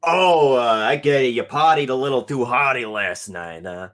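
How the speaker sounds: loud, breezy teasing of a hungover friend; loud talker. Acted. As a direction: rib them in an overly loud voice. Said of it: "his voice is so fucking loud".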